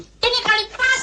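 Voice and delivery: very high-pitched excited yell; excited shout. Acted. Actor yelling that this take will work, excited. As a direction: shout it out, voice shooting right up.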